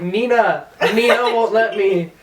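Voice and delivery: high, insistent mock wail; retold freak-out. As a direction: imitate drunken panic over who won't allow it. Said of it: "I was just freaking out".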